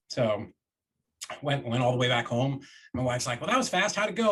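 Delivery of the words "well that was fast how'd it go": higher, brighter wife voice; lightly voiced wife asking; cheery wife.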